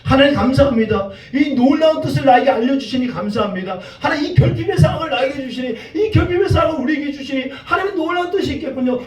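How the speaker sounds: mock-devout prayer of gratitude, pitch climbing; pious thanks. Preacher imagines Moses thanking God for the hardship, piously thankful. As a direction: put on a faithful believer's thankful prayer. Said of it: "그가 그렇게 부르짖었을까요".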